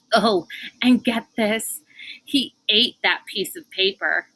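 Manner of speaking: a hint of a pleased, chatty official; smug gossiping Jillson. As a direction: relish telling the children every detail.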